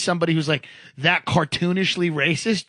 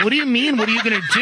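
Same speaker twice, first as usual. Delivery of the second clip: higher-pitched retold incredulous questions; baffled disbelief; 4 semitones higher, much faster than usual. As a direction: replay being baffled by a coworker. Retells his baffled reply to coworker.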